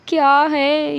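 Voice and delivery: slow, drawn-out astonishment; gasp, then stretch it out in disbelief; stunned disbelief. Acted. Husband watching his changed spouse leave, stunned.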